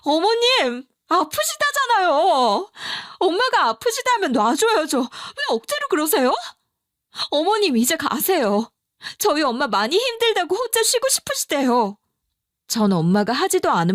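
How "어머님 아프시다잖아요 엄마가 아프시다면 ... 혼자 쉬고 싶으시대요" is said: yelling. Retold or imitated. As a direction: finally lose patience and shout at the mother-in-law. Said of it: "이렇게 고함 질러버렸는데요". (높고 크게 고함치는 며느리)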